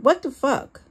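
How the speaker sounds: sudden high, loud outburst; yelled. A narrator's reading. Sean yells at her, loud and high. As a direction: Sean snapping at her from the doorway. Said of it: "Sean yelled".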